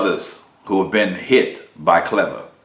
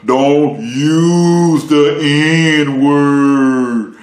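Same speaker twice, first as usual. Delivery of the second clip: higher, louder, very slow scolding; mocking black folks; 4 semitones higher, 6 dB louder, much slower than usual. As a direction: lecture in a drawn-out preachy mock voice. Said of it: "black folks say".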